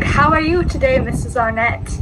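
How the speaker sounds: imitating the Australian dentist's accent; a lightly Aussie greeting; Australian-accented how are you today. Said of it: "He had this really Australian accent".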